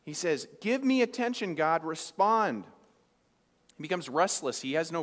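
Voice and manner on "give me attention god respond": high, pleading call to God; mock desperate plea. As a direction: beg God for attention, drawn out. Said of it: "yelling, crying out to God".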